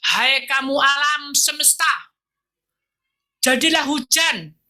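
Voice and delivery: booming divine command to nature; commanding God. Retold or imitated. God commanding nature with a slow loud call. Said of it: "Alam diperintah oleh Bapa".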